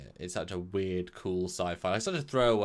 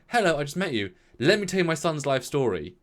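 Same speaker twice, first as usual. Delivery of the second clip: higher, louder parody of forced dialogue; mock over-eager introduction; 5 semitones higher, 5 dB louder than usual. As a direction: blurt it out like an over-keen stranger. Mimics an over-forward scripted character.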